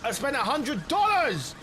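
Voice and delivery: frustrated outburst. Real, not acted. Griping to stream friends about wasted money, loud and high. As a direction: blurt it out in real disbelief.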